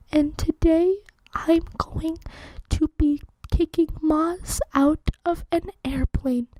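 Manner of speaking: a hammed-up whispery ASMR read; ASMR whisper. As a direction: breathe it like a mock relaxation video. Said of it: "welcome to Laddie A S M R".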